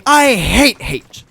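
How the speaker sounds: put-on a kid yelling at the babysitter to settle the argument; shouting as loud as possible. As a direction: yell it out so everyone hears. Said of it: "As loud as I can".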